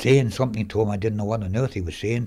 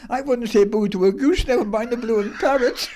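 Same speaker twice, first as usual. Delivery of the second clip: high, wheezing laughter; laughing while talking; 12 semitones higher than usual. Real, not acted. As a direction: barely get the words out laughing. Laughs through the punchline.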